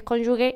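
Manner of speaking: cónyuge ending in hard gue; mistaken form. Shown as a demonstration. What many people here believe, imitated mispronunciation. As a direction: say the first cónyuge as if written cónyugue. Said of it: "muchísima gente cree que es".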